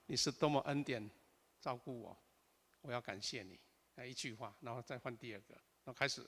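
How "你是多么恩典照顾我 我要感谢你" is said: soft, low-key prayer; sample opening prayer. Shown as a demonstration. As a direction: pray it quietly, trailing softer. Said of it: "比如说我祷长，我就先讲".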